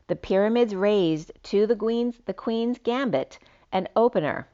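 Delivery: slightly lifted, declamatory read; poetic reading. Acted. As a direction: read it out like a cryptic verse. Reads out written poetic message.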